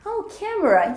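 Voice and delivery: palavra lembrada. Shown as a demonstration. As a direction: act the word finally clicking, pitch jumping up. Word suddenly found in role-play. (surpresa de quem lembrou a palavra)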